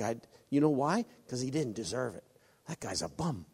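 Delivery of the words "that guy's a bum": dismissive sneer. Pretend. Voicing a dismissive judgement.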